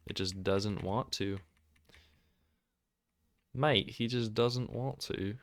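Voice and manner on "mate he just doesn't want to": put-on British accent. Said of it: "I can't do a British accent".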